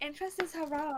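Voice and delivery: put-on sassy, girlish tone.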